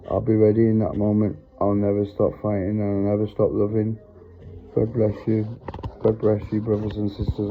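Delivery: low, measured memorised recitation. Acted. Speaker reciting a memorised piece to listeners, low recitation.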